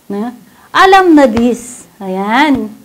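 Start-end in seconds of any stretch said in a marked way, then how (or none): 0.7-1.8 "Alam na this" said slower and louder, leaning on "Alam"; playful emphasis. Shown as a demonstration. Preacher repeats the catchphrase to the congregation, louder and playful. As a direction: land the catchphrase "Alam na this" with a knowing push. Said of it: "alam na po".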